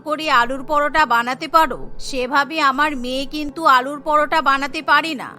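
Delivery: a lightly voiced stern mother-in-law; scolding mother-in-law.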